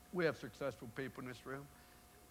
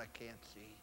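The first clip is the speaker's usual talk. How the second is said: mild moan; 4 semitones lower, 12 dB quieter than usual. Retold or imitated. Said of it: "Reggie started to moan".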